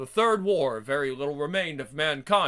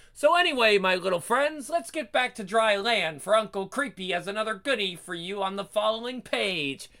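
creepy horror host; 4 semitones higher than usual. Acted. Uncle Creepy host addresses readers.

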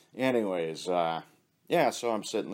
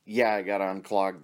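mock shout; 4 dB louder than usual. Joke punchline shouted.

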